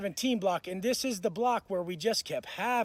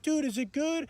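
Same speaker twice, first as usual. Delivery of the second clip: higher-pitched mock-meek question; meek asking; 6 semitones higher than usual. Cellmate with bloody nose asking, meek and higher. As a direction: imitate a beaten man checking it's over. Beaten cellmate asks, retold.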